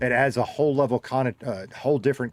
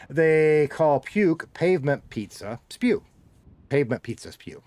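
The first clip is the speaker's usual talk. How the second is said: higher and slow, spew rising; higher, slow second go at the tongue twister; careful retry; 5 semitones higher, 3 dB louder than usual. Shown as a demonstration. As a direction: try the tongue twister again, pitched up and slow. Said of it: "That's hard to say".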